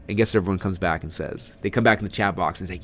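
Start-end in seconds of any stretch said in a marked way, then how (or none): none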